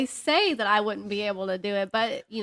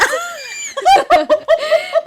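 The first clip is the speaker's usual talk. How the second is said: high, loud shrieking laughter; 10 dB louder than usual. Real, not acted. Cracking up while telling her friend the story, shrieking laugh. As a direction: let the laugh burst out loud.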